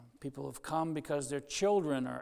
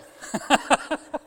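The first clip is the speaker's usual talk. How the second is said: unvoiced laugh; 9 semitones higher, 10 dB louder than usual. Real, not acted. Laughs at own joke.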